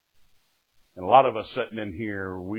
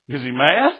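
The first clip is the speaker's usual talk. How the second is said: retold alarm; 4 semitones higher, 5 dB louder than usual. Acts out fearful jailed self asking sheriff.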